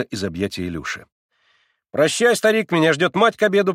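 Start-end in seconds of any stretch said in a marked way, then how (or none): 1.9-3.7 put-on fast, louder, higher boy; rapid patter. A narrator's reading. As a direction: rush the words to hide tears. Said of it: "проговорил он скороговоркой". (скороговоркой)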